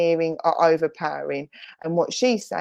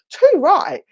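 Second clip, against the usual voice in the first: laughing agreement; 10 semitones higher, 7 dB louder than usual. Retold or imitated. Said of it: "she's laughing her head".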